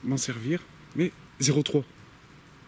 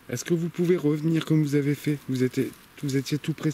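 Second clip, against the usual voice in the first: higher, louder plea to the dark; calling out; 4 semitones higher, 5 dB louder than usual. Real, not acted. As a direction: call out to the spirits. Calling out to spirits. (appel aux esprits)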